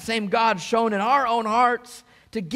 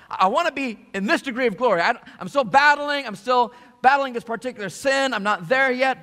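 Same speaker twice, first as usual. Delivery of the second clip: higher, louder, fast mock complaint; frustrated believer; 6 semitones higher, 4 dB louder than usual. Pastor voices a frustrated churchgoer, mock complaining. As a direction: act out a struggling believer's frustration. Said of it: "sometimes you get frustrated".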